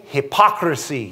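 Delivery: slight Spanish twang with rolled R. Real, not acted. Preacher quoting Paul to his church, slight Spanish twang. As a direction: roll the R in "hypocrisy", Spanish-style. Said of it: "said that with a Spanish twang".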